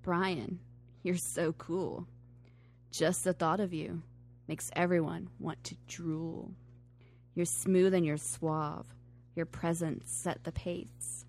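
sexy voice. Acted. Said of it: "I like reading them in that sexy voice".

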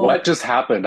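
tinny, like talking in a tin can; inside metal tank. Real, not acted. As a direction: sound boxed in a metal can. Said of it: "why do you sound like you're on a tin can?".

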